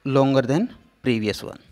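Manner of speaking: longer drawn out slowly; slow, drawn-out demo; stretched out. Shown as a demonstration. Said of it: "this one is longer".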